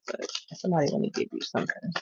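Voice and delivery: fast, breathy whisper; quick hushed aside. Real, not acted. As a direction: drop to a whisper as if sharing a hunch. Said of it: "I don't know why I just picked that up".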